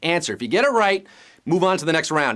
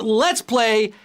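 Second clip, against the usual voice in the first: slow, drawn-out host catchphrase; game show catchphrase; slower than usual. Acted. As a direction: stretch it like a big show opener.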